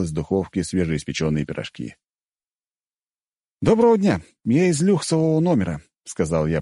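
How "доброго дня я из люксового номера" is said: high, squeaky granny voice; old woman parody. Acted. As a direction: parody a fussy old lady. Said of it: "пародируя бабку".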